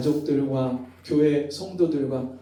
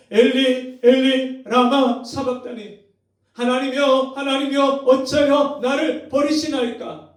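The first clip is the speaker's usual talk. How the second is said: anguished outcry; 8 semitones higher, 6 dB louder than usual. Retold or imitated. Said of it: "절규하면서".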